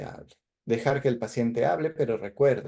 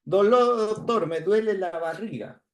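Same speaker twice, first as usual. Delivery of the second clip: higher, louder voice of a patient in pain; patient complaint; 8 semitones higher, 3 dB louder than usual. Acted. Teacher voicing a patient telling the doctor of pain, higher and louder. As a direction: sound like a hurting patient. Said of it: "Por ejemplo".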